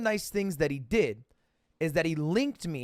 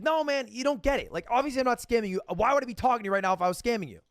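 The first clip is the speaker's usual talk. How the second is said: higher, fast defensive babble; mock-panicked friend, higher and fast; nervous friend; 6 semitones higher, faster than usual. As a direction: rush to prove you're innocent. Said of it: "He's like".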